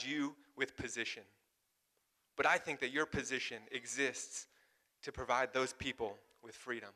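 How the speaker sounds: a hint of a hero's rallying speech; reciting a movie speech. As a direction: quote the rousing movie line with weight. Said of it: "and he says".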